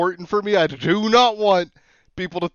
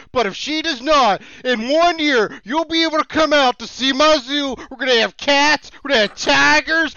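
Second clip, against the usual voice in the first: hammed-up Pennsylvania accent, pitched higher, selling his future zoo; 6 semitones higher than usual. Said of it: "I love the accent just comes out of nowhere".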